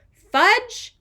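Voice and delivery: high, loud shout of the name; yelling a child's name in alarm. A narrator's reading. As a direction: call him out sharply. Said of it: "Then she shouted".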